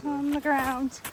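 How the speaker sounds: out of breath from the climb; panting between words; gasping between phrases. Real, not acted. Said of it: "Some out of breath".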